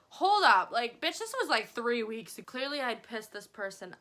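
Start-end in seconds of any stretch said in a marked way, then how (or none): 0.1-2.4 indignant. Retold or imitated. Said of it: "and I was like".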